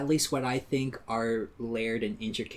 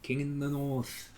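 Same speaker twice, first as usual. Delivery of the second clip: mock epic quote; slower than usual. Game of Thrones quote, put-on.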